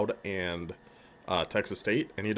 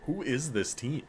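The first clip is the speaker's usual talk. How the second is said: stunned disbelief; 4 semitones higher than usual. Real, not acted. Stunned his weak team leads.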